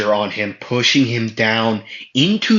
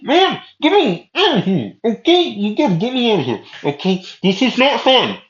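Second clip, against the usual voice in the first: high-pitched muffled cry for help, much louder; muffled Asta; 12 semitones higher, 5 dB louder than usual. Acted. Asta buried in the ground begs Yami, high and muffled. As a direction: Asta stuck in the ground, whining much higher. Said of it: "the muffled, uh, voice of Asta".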